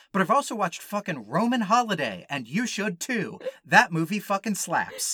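high, fast, emphatic praise; escalating comedy rant. Real, not acted. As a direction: gush with comic emphasis. Enthusiastic verdict rant.

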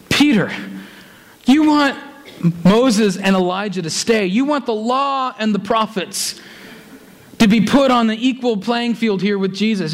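lightly voiced scolding of a disciple; God rebuking Peter. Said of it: "a bit of a rebuke to Peter".

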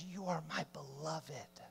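very soft, intimate near-whisper; hushed, as God reassuring a beloved child; God's tender hush. Acted. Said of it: "when he whispers, he says".

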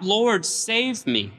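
high, slow plea for rescue; desperate cry. A narrator's reading. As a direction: cry out while sinking, slowly and high. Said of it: "he cried out".

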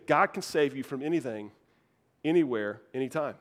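low, with pauses before ANYWHERE and ANYTIME; measured and low, landing each phrase separately; deliberate repetition. Real, not acted. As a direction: restate it firmly, setting ANYWHERE and ANYTIME apart. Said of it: "Let me say it again".

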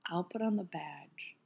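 hushed, conspiratorial whisper. Retold or imitated. To her friend while sneaking into line, whispering. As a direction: whisper it like you're sneaking past staff.

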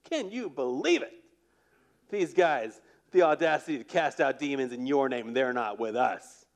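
hammed-up offended disciple; indignant. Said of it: "You hear the indignation in their voice".

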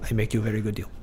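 a light put-on Portland accent, salesman pitch; mock Portland accent. Selling his old bike on Craigslist in a mock Portland accent. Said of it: "There's that Portland accent".

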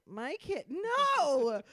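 high, loud horrified cry; horrified scream. Retold or imitated. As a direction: scream in horror at the news. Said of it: "Everybody that's driving in the car is like".

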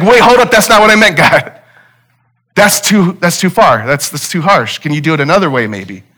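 a retold prophet backpedalling in alarm; alarmed protest. Habakkuk protests God's plan.

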